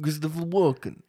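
hint of Walken's halting cadence; Christopher Walken impression. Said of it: "try to do my impression again".

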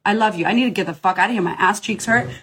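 ordinary delivery

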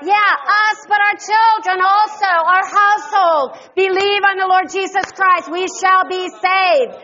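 high, ringing praise; praising preacher. Real, not acted. Pastor leading the church in thanks, ringing praise. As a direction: lift every thanks up high.

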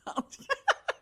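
short high-pitched laugh; high giggle. Real, not acted. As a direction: let out a quick high giggle. Laughs after a joke.

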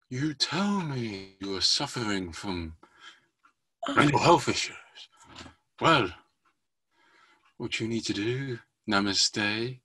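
slow, mystical sensei voice; calm wise martial arts master. Acted. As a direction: drawl it like a wise old sensei. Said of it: "That sounds like a sensei saying".

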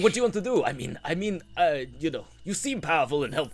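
hammed-up bad Russian accent; scheming villain in a Russian accent; the speaker's Russian accent. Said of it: "I'll try and do my Russian accent again, uh, terribly".

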